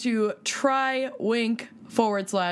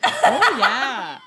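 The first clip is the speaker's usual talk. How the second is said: excited; 8 dB louder than usual. Real, not acted. Excited exclamation.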